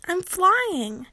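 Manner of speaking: loud, high triumphant shout; triumphant cry. A narrator's reading. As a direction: burst out in triumph. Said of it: "cried Kate".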